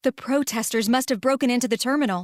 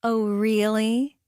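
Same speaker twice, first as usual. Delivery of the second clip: playing along; slower than usual. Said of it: "I smirk, playing along".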